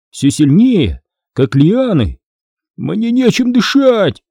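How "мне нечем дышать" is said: high, slow moan. A narrator's reading. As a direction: moan as if short of air. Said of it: "застонал Кайл". (протяжный стон от удушья)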